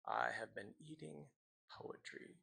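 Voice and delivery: fading into a near whisper; hushed poem ending. Acted. Teacher closes the poem for students, fading to whisper. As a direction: let the last line die away, pause before the final word.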